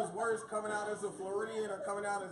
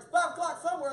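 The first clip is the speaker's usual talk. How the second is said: mock homeless man; 9 semitones higher, 9 dB louder than usual. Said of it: "He's like".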